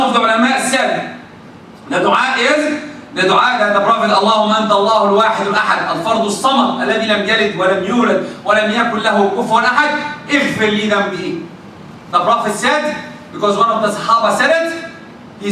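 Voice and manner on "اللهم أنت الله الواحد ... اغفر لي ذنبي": 1 recited dua. Shown as a demonstration. Recites prophetic dua in Arabic.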